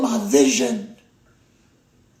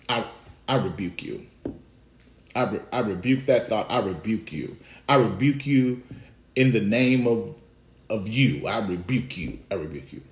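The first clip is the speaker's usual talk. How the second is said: low hushed rebuke; mock rebuke; 9 semitones lower, 4 dB quieter than usual. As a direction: rebuke him quietly, fading away. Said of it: "Peter pulled him to the side".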